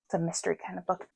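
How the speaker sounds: talking through hiccups; hiccuping mid-sentence. Real, not acted. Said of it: "I keep hiccuping".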